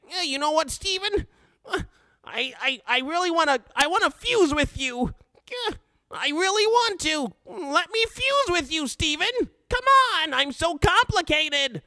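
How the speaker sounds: whiny high-pitched pleading; Lars impression. Host mocks Lars begging Steven to fuse, high whiny pleading. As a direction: beg in a high, hammed-up whine. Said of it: "you guys like my Lars impression?".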